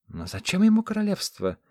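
high, loud exclamation of the fat governor; exclaiming. A narrator's reading. Fat governor protests to the council, exclaiming high and loud. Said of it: "воскликнул толстопузый градоправитель".

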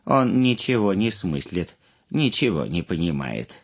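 grandma telling fairy tale. A narrator's reading. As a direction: tell it like a grandma at bedtime.

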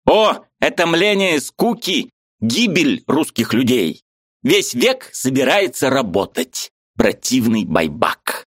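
high, eager voice of a Ukrainian friend; lively high-pitched friend arguing; Mikhalevich's voice. A narrator's reading. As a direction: play the excitable friend up high.

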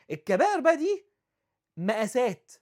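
high, loud warning that the major sins are disasters. Real, not acted. Preacher warning the congregation about major sins, loud and high. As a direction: ring it out as a grave warning.

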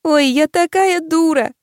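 slow, high crying wail. A narrator's reading. Crying girl repeats to friend, slow high tearful wail. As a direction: wail it through tears. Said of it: "плача повторила я".

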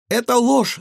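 высокий громкий протест; выкрикни обвинение во лжи; возмущённый крик. A narrator's reading. (девочка громко и высоко кричит следователю, что это ложь)

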